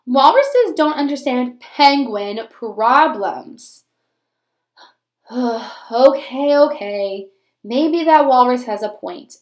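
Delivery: grumble, then let him soften; mopey penguin. Acted. Penguin speaks again.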